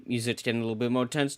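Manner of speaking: quick hushed aside. Shown as a demonstration.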